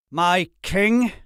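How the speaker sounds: a loud disbelieving echo; incredulous. A narrator's reading. Lord echoing the insult in disbelief, incredulous. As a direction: repeat it as if you can't believe it. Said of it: "could not believe".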